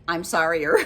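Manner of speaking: a giggling coinage; laughing joke word. Real, not acted. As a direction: say it through a laugh.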